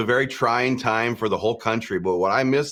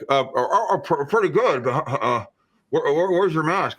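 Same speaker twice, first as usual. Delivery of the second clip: flustered stammering shopper; 5 semitones higher than usual. Retold or imitated. Imitates flustered masked shopper.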